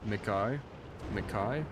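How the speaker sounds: "Mikai" with KAI rhymed on the letter I, rising; trying out Mikai. Shown as a demonstration. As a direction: repeat "Mikai" as mi-KAI, questioning. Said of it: "Like how you pronounce I".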